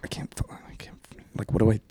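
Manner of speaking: retold panicked whisper, half-choked; flustered whisper. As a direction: whisper it, lost for words. Bullied kid stammering at lunch.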